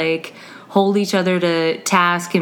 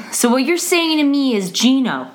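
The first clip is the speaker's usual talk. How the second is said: lightly mimicked earnest student; a hint of his careful repeating; imitating Gino; 5 semitones higher than usual. Teacher mimicking her student's habit, lightly voiced. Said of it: "he sounds like this. He talks like this".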